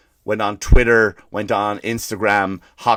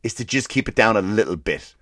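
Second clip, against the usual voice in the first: polite request. Retold or imitated. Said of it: "All I said was".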